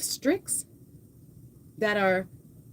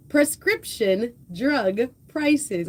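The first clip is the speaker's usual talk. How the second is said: careful redo; much slower than usual. Shown as a demonstration. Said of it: "I'm trying to say".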